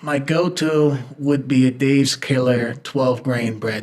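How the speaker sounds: slow, put-on New York accent. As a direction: drawl it like a New Yorker. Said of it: "in a New York accent".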